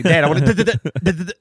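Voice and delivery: teasing babble. Retold or imitated. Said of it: "They say".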